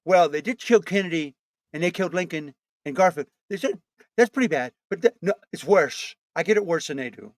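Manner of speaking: lightly voiced Trump boast; Trump impression. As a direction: brag like Trump, mildly.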